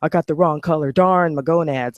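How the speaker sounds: lightly hammed-up moaning voice; mock whiny complainer. Mocking people who whine about their color, a mock moan. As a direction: parody someone sulking over their lot. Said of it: "people who have that issue so hard".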